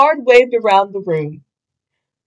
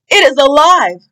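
shouting; 5 semitones higher, 4 dB louder than usual. Acted. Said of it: "a boy shouted".

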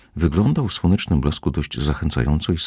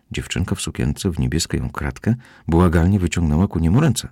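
plain reading voice

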